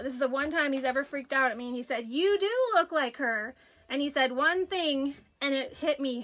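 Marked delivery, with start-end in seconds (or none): 2.1-3.5 mildly exasperated husband, higher pitch; husband freaking out. Retold or imitated. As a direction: insist on it, a touch heated. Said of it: "he freaked out".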